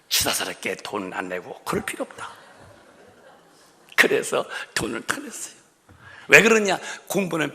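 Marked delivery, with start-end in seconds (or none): none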